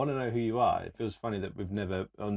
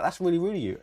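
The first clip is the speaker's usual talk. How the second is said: mocking echo of the rebuke, higher; mocking the stranger; 8 semitones higher, 3 dB louder, faster than usual. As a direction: sneer back at the stranger's line.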